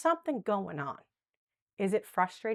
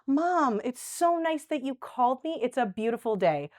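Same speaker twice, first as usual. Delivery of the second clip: warm cheerful chat; 3 semitones higher than usual. Shown as a demonstration. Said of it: "figure out things that you know she likes".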